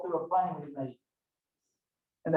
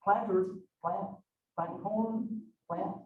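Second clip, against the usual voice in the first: put-on puzzled farm boy; 7 dB quieter, much slower than usual. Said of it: "And I went".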